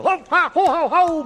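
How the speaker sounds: high, loud ho ho laugh; hearty laugh. Acted. Worm laughs at the kung fu.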